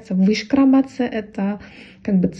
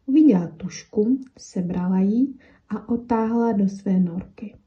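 lively read-aloud of a children's tale, mouse and pencil lightly voiced; expressive storybook reading; storytelling with character voices. A narrator's reading. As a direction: tell it like a bedtime story, giving the pencil and the mouse their own lines. Reads Czech fairy tale aloud.

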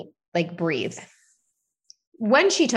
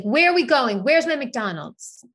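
criança exigente; 5 semitones higher than usual. Retold or imitated. Voices demanding young son.

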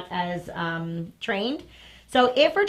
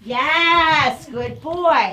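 excited praise; 4 semitones higher, 7 dB louder, much slower than usual. Real, not acted. Praising dog on recall.

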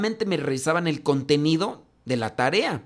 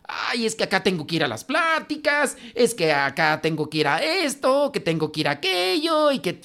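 whiny parishioner; 5 semitones higher than usual. Retold or imitated. Mocking parishioners who dodge classes.

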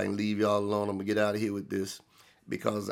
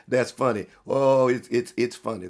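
laughing it off; 4 dB louder than usual. Retold or imitated. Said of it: "you looking at them laughing and say".

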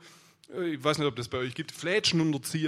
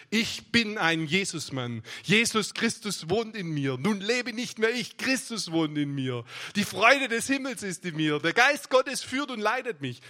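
declaration of faith. Shown as a demonstration. Models a confession of faith.

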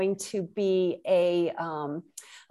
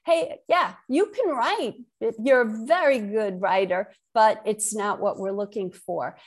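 quoted rejection letter. Retold or imitated. Author quoting publishers' letters to her, mock-encouraging. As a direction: voice a kindly rejection, upbeat then letting down. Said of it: "I would get lovely, lovely rejection letters".

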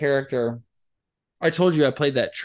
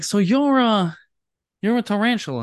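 mock incredulous host; 7 semitones higher, 4 dB louder than usual. Imitating radio host, incredulous.

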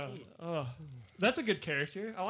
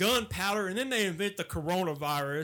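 lightly voiced Southern redneck. Riffing as a suspicious redneck.

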